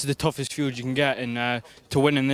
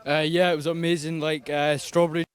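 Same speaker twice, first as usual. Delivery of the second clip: hoarse, worn-out voice; lost voice; 2 semitones higher than usual. Real, not acted. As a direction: speak with a voice that's nearly gone. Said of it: "lost my voice".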